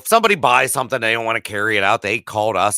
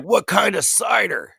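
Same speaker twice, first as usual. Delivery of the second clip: high-pitched mock-innocent question; clueless bafflement; 9 semitones higher than usual. Teller mocking his old self's cider question, clueless. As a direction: replay your own confusion in a raised voice.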